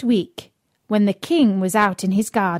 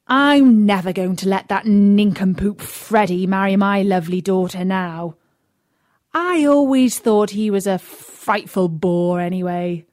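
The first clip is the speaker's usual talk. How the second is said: put-on louder, indignant old king; cross king; 5 dB louder than usual. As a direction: huff it out like a fed-up king. Angry king about Freddie.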